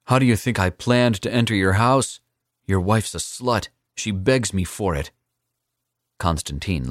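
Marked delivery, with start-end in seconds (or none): 0.1-5.1 put-on louder, higher defiant young man; defiant young assassin. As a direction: throw the threat back in his face.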